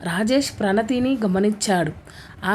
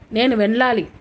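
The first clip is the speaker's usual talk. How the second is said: a firm, raised insistence; said firmly; 3 dB louder than usual. Acted. Husband cuts his wife off, firm and raised. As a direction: cut her off firmly. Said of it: "అన్నాడు గట్టిగా".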